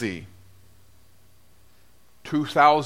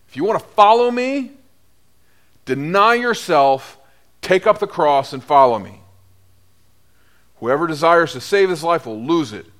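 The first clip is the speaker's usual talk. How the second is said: preaching; 2 semitones lower than usual. Acted. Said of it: "he preaches".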